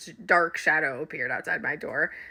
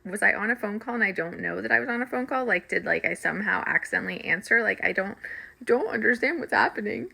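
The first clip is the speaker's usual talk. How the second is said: fast, tumbling confused questions; panicked rambling; 3 semitones higher, faster than usual. Retold or imitated. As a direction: rush the words like you can't make sense of it. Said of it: "Like, this is how I was".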